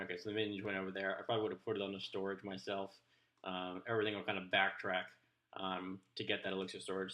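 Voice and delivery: talking around a pen in mouth; pen in teeth. Real, not acted. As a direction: speak with a pen between your teeth. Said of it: "Sorry, I put a pen in my mouth".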